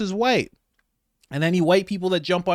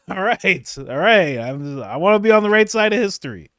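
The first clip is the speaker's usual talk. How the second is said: mock white liberal; 3 semitones higher, 4 dB louder than usual. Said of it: "White people are like".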